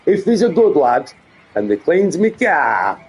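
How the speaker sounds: hammed-up Yorkshire dad; put-on Yorkshire accent. Streamer promising a good lad rewards, put-on Yorkshire accent. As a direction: play the daft Yorkshire daddy. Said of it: "this daft Yorkshire accent he goes into".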